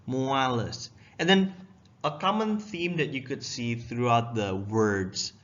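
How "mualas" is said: "Mualas" with a drawn U and falling end; U inserted. Shown as a demonstration. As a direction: lean into the U of "Mualas", then go down. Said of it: "have it go down".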